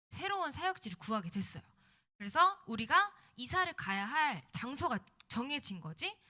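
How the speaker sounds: normal talking voice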